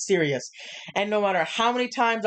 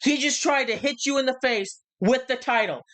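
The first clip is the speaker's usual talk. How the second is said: heated promo; 5 semitones higher than usual. Retold or imitated. Acting out Cody's heated promo.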